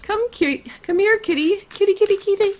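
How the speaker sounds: put-on very high Polish-accented cat call; Polish kitty call. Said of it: "You can hear that I'm Polish when I'm saying it".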